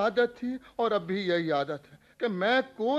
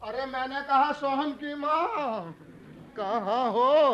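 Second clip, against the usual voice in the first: drawn-out call to his wife; impatient husband calling out; 4 semitones higher, 3 dB louder, slower than usual. Acted. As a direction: holler for someone in another room, stretching the last words. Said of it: "क्यों चिल्ला रहे हो".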